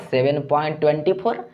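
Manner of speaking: "ट्वेंटी फ़ोर" run together as one number; wrong decimal reading. Shown as a demonstration. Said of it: "ऐसे नहीं पढ़ा जाता है". ("ट्वेंटी फ़ोर" को एक संख्या की तरह पढ़ते हुए)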